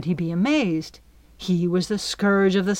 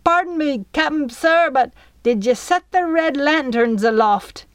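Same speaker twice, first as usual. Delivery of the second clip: put-on nervous cabin boy; 7 semitones higher, 4 dB louder than usual. Nervous Flea voice sustained.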